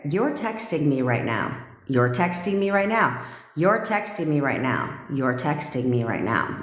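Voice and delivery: steady, firm command with falling ends; firm backbone. Shown as a demonstration. Coach shows listeners how to command their person's picture, firm backbone. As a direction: state it as an order, no pleading. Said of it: "Say it with a little background".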